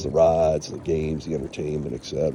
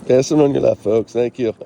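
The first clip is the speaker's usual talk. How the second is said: raised call to people ahead; passing cyclist calling out; 6 semitones higher, 5 dB louder than usual. Real, not acted. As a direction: call out a warning while passing.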